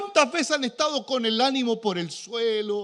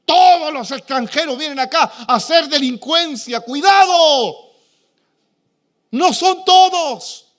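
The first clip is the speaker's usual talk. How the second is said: loud, high mocking voice of a bigot; mock xenophobe; 6 semitones higher, 13 dB louder than usual. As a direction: shout it like a scornful nationalist. Voicing a prejudiced churchgoer. (burla exagerada de un xenófobo)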